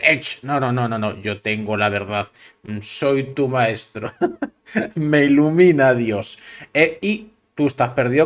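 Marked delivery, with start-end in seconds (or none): 0.0-6.4 lightly mocked self-important guru, laughing at the end; mocking guru. Host mocking New Age gurus, smug with a laugh. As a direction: parody a smug guru claiming divine light. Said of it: "estos nuevos gurús que te dicen".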